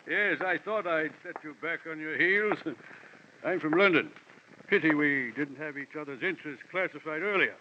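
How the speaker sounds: lightly imitated genial film villain; amused, orotund courtesy; Sidney Greenstreet. Addressing a surprised fellow investigator, lightly Greenstreet-like. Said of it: "fortunate similarity in voice and physique".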